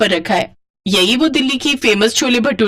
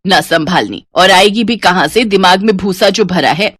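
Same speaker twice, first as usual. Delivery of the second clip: lower, firm nagging voice; scolding mother; 3 semitones lower than usual. Acted. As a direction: tell her off for the sari. Mother lectures daughter. (डाँटती माँ, भारी आवाज़)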